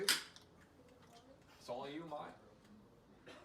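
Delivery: very slow, whispered Cockney; Cockney accent. Pretend. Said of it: "we all talk in a Cockney accent".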